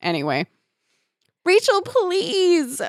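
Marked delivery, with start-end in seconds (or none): 1.4-2.8 slow, high shrieking plea. A narrator's reading. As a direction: shriek it out in mock terror. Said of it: "Melissa shrieked".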